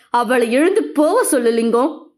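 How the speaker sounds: growled from behind a closed door; muffled growl behind door. A narrator's reading. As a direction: call out through the shut door, menacing. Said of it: "மூடிய கதவுக்கு அந்த பக்கம் கர்ஷித்து". (மூடிய கதவின் பின்னால் இருந்து உறுமல்)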